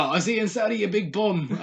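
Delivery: high-pitched imitation of a taunt; mock fighter's taunt. Fan mimicking a boxer threatening his rival, mock taunt.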